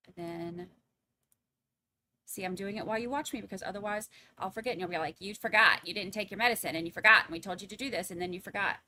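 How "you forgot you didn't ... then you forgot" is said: mock nagging scold, a bit louder; naggy voice. Viewers scolding the host, mock nagging voice. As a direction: nag her like a chorus of annoyed viewers. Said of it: "I picture y'all's voice like that".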